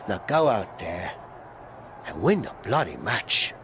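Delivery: sincere pep talk. Acted. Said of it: "That was a lot better".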